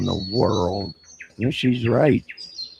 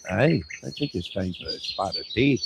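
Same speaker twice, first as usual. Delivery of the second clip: mock English accent; 4 dB quieter than usual. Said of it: "they're all from London".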